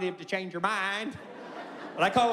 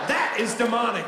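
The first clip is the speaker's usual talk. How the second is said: mock outrage shout. Ranting about tofu.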